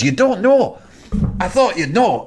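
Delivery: high-pitched, disbelieving retort; incredulous. Retold or imitated. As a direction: act out a startled, let-down question. Manager reacts to friend not knowing.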